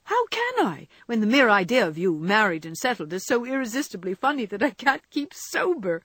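very high opening, lively protest; amused Jo. Acted. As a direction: exclaim as if unable to keep sober. Jo's voice, amused.

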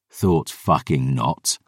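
dry. Acted. Dry comeback in argument.

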